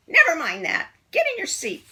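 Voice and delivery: loud barked order; strict teacher. A narrator's reading. Miss Swamp ordering kids to work, loud and stern. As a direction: command the class sharply.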